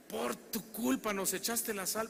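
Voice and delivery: queja acusadora más aguda y lenta; reproche imitado. Retold or imitated. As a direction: imita un reclamo alargando "por tu culpa". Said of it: "y me dicen". (reclamo agudo de burla)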